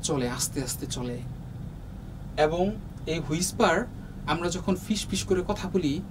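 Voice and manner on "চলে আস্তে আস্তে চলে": much softer, drifting like a soundless breeze. Shown as a demonstration. Teacher showing students a soundless breeze, softly. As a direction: let it float out like wind that makes no sound. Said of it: "কোনো শব্দ ছাড়া".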